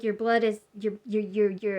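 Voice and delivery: tripping over your your, your your; stuttering nurse. Retold or imitated. Imitating a flustered nurse, stuttering. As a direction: stammer the start like you can't say the number. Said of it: "and she's stuttering like that".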